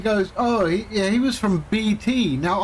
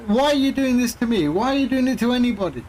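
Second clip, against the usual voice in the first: higher-pitched mock reproach; retold indignant challenge; 3 semitones higher, faster than usual. Teller confronting a scam caller on the phone, indignant retelling. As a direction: plead the point to him, higher.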